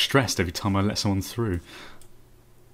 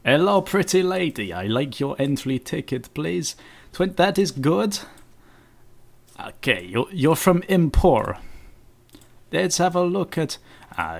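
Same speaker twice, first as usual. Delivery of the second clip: put-on rubbish Russian accent. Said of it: "rubbish Russian accent".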